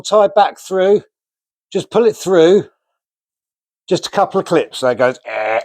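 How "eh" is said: short vocal sound effect of a clip going; made-up "eh" sound effect; imitated clip noise. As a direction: mimic the noise of a clip closing. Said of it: "that's exactly how it sounds".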